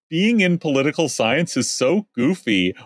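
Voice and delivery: lightly voiced goofy nerd; dopey poli-sci guy. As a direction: read it like a smug dopey student. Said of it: "dopey smile saying".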